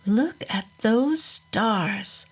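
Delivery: a hushed, drawn-out whisper at the night sky; whispering slowly to the boy beside him; slow awed whisper. Acted. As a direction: breathe it out slowly in wonder. Virgil's sudden remark under stars.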